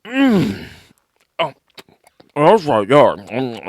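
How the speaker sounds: savoring moans round a mouthful; Amber taking a bite. Acted. Imitating co-host eating a really good meal, savoring. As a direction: act out relishing a great bite. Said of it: "do Amber taking a bite".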